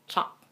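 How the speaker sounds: lazy lips on choc, almost swallowed; schwa, merely heard. Shown as a demonstration. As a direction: choc as a quick "chuk". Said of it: "it's merely heard".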